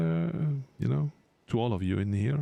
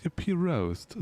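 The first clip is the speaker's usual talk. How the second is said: mock high name; 8 semitones higher, slower than usual. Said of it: "she is in German".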